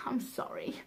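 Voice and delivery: sorry whispered on a sigh. Real, not acted. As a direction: sigh out the apology. Sighed apology.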